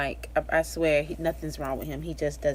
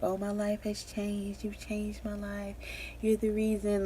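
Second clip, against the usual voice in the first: quoting sappy posts; 4 semitones higher, 3 dB quieter than usual. Retold or imitated. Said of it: "all of those quotes that people post".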